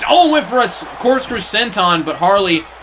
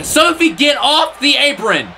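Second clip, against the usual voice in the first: irritated shout; 8 semitones higher, slower than usual. Real, not acted. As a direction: shout her off the apron, fed up. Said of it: "I'm so irritated right now".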